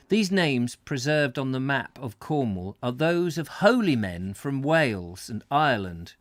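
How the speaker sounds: measured read-aloud voice; story narration. Acted. Host reading a Cornwall travel book to viewers, narrating.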